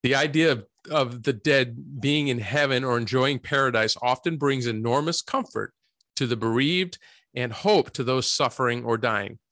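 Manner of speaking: measured read-out, phrase by phrase; reading aloud. Real, not acted. Host reads the opening statement on heaven to listeners, reading aloud.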